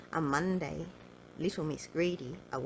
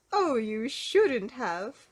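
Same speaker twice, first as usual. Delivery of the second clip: laughing protest; 6 semitones higher, 7 dB louder, much slower than usual. Acted. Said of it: "laughed Mister Greedy".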